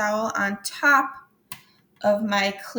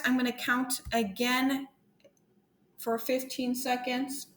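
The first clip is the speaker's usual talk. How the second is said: breathless after jumping jacks; out of breath; 2 semitones higher, 3 dB quieter than usual. Real, not acted. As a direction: talk while catching breath. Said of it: "Now that I'm out of breath".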